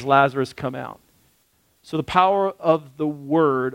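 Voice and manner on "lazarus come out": Lazarus call. Retold or imitated. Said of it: "and he says".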